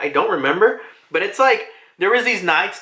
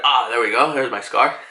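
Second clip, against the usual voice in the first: satisfied Luffy; 9 semitones lower than usual. Retold or imitated. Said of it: "he's like".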